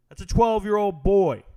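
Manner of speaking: incredulous outburst at full volume; loud disbelief. Real, not acted. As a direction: hammer each word in astonishment. Ranting about tiny fighters' weight.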